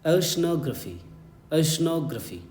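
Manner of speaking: careful teacher's model of "oceanography", reduced "gruh-fee" ending; correct pronunciation. Shown as a demonstration. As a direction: say "oceanography" as oh-shuh-NOG-ruh-fee. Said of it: "this is the correct pronunciation".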